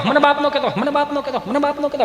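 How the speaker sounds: echo. Pretend. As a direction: let it die away like an echo. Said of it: "પડઘા મળ્યા પડવા".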